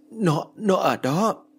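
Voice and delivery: very slow, high, stammering; a frightened girl pointing under the wardrobe; terrified stammer. Acted. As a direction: barely get the words out in fear.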